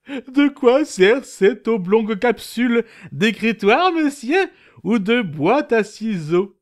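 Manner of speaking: high, curious questioning. Acted. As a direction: ask like a nosy onlooker.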